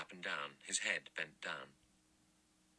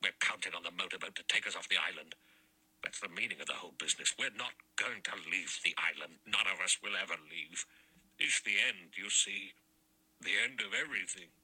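sharp; 3 dB louder than usual. A narrator's reading. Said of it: "said sharply".

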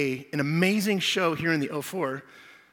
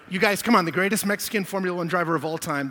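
excited call-out; 4 dB louder than usual. Real, not acted. Rallying the crowd about driver.

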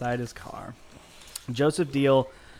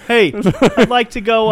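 bear voice; 6 semitones higher, 7 dB louder than usual. Pretend. Bear ordering Uber.

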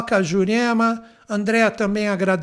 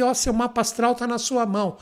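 normal talking voice

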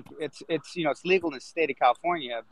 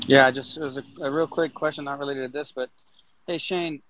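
cutting in and out; choppy broken connection; glitching audio. Real, not acted. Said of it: "you're cutting out quite a bit".

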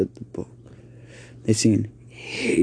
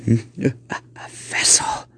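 demon whisper; slower than usual. Acted. Demon spots the boy.

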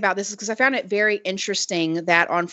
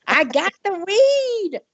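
mock rapper; 11 semitones higher, slower than usual. Rapper impression, slow.

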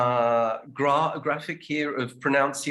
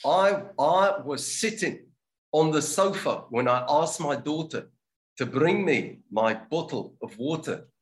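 South African accent. Shown as a demonstration. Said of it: "your best South African accent".

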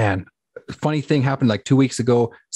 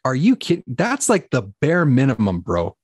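retold disbelief; 4 semitones higher, slower than usual. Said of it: "And I was like".

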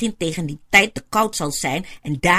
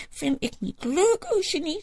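snotterend; 13 semitones higher than usual. Acted. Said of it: "terwijl ze haar neus snuit".

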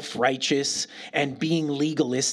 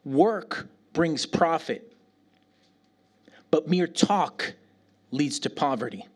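scripture reading. Shown as a demonstration. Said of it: "reads like this".

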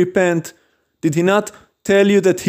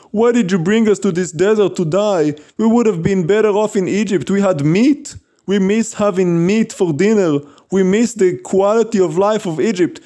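mildly higher mock complaint; complaining Israelites; 4 semitones higher than usual. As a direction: imitate a people moaning to their leader. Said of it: "the first thing they said after they got out of Egypt".

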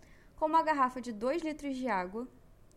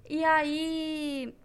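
usual speaking voice

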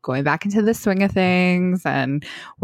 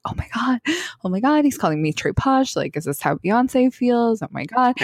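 starstruck; 5 semitones higher than usual. Retold or imitated. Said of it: "And I was like".

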